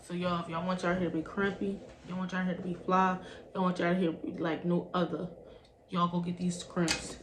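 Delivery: light sales-jingle rhythm; attempted rhyming pitch. Vlogger pitching crimpers to viewers in rhyme, playful jingle attempt. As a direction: recite it like a makeshift rhyming ad. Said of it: "I tried to rhyme".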